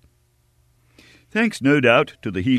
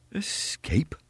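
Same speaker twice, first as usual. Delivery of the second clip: frowning repeat; 9 semitones higher, 6 dB quieter than usual. A narrator's reading. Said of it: "repeated the stranger, frowning".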